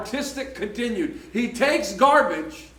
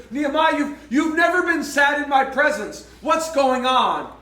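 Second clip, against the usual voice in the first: king; 3 semitones higher than usual. Retold or imitated. King questions his sad servant.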